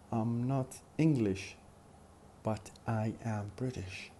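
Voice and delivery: "am" in "but I am British" said strong and full; stressed am. Shown as a demonstration. Teacher reading a contrast example, stressing "am". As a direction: put the weight on "am" to show the contrast. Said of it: "the word am ... has to be stressed".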